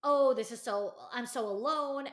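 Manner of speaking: a hammed-up sulky friend; whiny complaint. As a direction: whine it like a sulking friend. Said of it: "she just kept saying".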